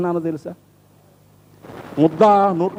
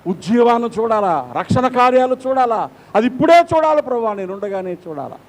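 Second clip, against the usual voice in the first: fervent plea; 4 semitones higher than usual. Acted. Pleading prayer to God.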